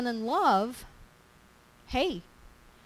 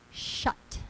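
whispered; 7 dB quieter than usual. Shown as a demonstration. Keep my mouth shut.

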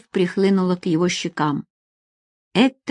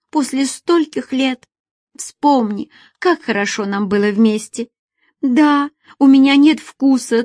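higher, tearful woman begging him to stay; a woman begging her lover, higher and anxious; pleading woman; 5 semitones higher than usual. Acted. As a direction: plead with him not to leave.

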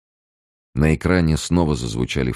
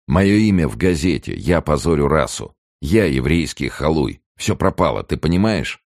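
lightly voiced young man, a touch higher and louder, agitated; Billing fretting about his name in the paper; nervous student Billing; 5 semitones higher, 4 dB louder than usual. Student Billing to Ruth, nervously pressing her, mildly raised. Billing panics over the newspaper.

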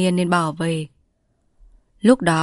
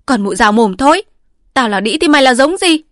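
loud, higher defiant snap back; angry retort; 7 semitones higher, 6 dB louder than usual. A narrator's reading. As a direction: throw the insult right back. Mistress shouts back at wife.

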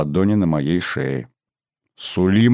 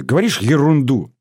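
higher, mildly annoyed retort; cross; 6 semitones higher than usual. A narrator's reading. Albina dismisses Rita's teasing, mildly cross. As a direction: snub the teaser, mildly cross. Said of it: "сказала сердито".

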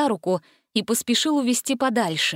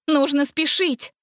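higher, slow alarmed gasp; urgent gasp; 6 semitones higher than usual. A narrator's reading. Gretel realizing they must hurry, alarmed. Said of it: "ахнула Гретель".

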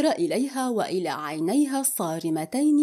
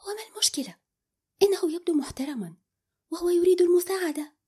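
higher, a quick sharp defence; sharp retort; 8 semitones higher, faster than usual. A narrator's reading. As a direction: snap back at him, higher and quicker. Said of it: "قالت بحدة". (رد حاد بصوت أعلى)

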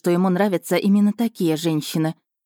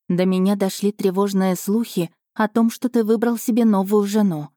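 mock lovesick letter; 3 semitones higher than usual. Heroine mockingly reads the rival's love letter, higher and pleading. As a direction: read it as a swooning, clingy rival.

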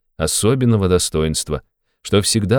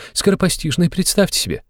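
high, agitated mother's voice; a mother spilling her worries, pitched high; fretting mother; 11 semitones higher than usual. A narrator's reading.

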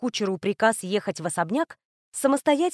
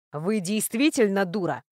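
icy cold. Acted. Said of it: "обдал холодом Рес".

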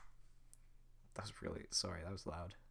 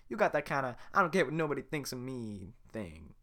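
excited Donkey; 3 semitones higher, 6 dB louder than usual. Acted. Donkey flattering Shrek.

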